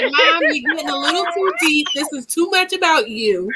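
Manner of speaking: light imitation of a teasing son; teasing kid voice. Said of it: "That's when he's like".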